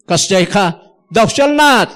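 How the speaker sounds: the rule-giving preacher turning up the pressure; rising stern command. Retold or imitated. Mimicking legalistic preachers.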